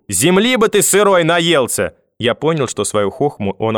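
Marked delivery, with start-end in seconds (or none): 0.1-1.9 slow, high-pitched curse; angry cry. A narrator's reading. Grandmother cursing grandfather after his joke, angry cry. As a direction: draw the curse out in a raised voice. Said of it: "По раздавшемуся через минуту крику".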